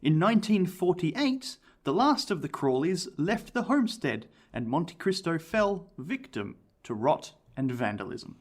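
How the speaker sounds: measured documentary storytelling, drawn-out dates; story narration. A narrator's reading. Host tells the Crawleys' history, measured story narration. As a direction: narrate it like an eerie history tale.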